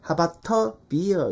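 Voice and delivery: "How about a beer" as "ha-bat-tuh beer"; hard spitting t. Shown as a demonstration. Teacher showing the awkward version for a beer invitation, hard t. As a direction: keep a hard t in "about a", slowly. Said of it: "침도 튀어".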